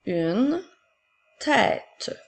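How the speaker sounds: each word spaced out and clearly set apart; slow dictation. Shown as a demonstration. Teacher dictating to a child, slow and distinct. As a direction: dictate slowly to a pupil writing. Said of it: "Attention à ton accent".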